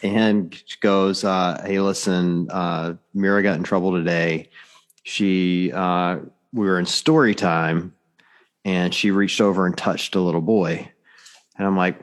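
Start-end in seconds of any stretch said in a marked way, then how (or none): 1.7-10.9 hesitant, measured report with pauses; imitated serious teacher. Teacher calling dad about his daughter's trouble, mildly serious. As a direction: deliver bad news gravely, lightly acted. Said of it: "all serious, really serious".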